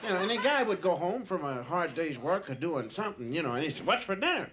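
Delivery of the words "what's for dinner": caveman husband asking. Acted. Caveman husband home from work.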